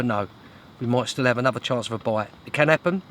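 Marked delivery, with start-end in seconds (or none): 2.5-3.0 it can happen said brightly, rising at the end; hopeful. Real, not acted. Angler to viewers, hoping for another bite, upbeat rising tone. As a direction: lift the word happen, full of hope. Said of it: "Doubt it, but".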